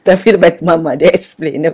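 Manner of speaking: ordinary talk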